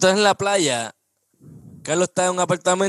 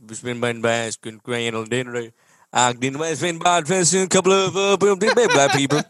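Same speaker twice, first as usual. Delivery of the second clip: put-on Southern accent; 4 semitones lower, slower than usual. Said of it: "¿Cómo es que hablan los tipos esos del, del West".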